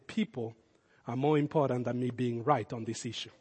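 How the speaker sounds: soft, low, deliberate; quiet resolve. Retold or imitated. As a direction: say it gently like a surrender. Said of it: "gotta just take that and say".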